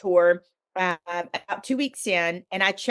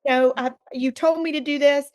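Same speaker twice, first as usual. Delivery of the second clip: mock angry plea; 4 semitones higher than usual. Woman shaking her fist at God during her hissy fit, mildly exasperated. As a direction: protest half-retold, voice a bit lifted. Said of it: "I shook my fist at God".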